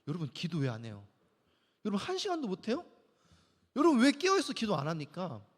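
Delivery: mock nagging preacher, rising pressure; hammed-up pushy sermon scolding; pretend scolding. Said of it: "다그친 적 있어요". (설교 중 교인들을 다그치는 과장된 꾸중)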